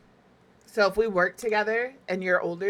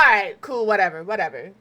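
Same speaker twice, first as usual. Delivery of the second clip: dismissive; 6 dB louder than usual. Acted. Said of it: "typically I'm like".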